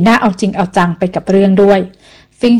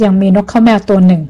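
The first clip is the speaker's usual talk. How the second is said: unhurried telling. Acted. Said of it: "อย่างเนิบๆ".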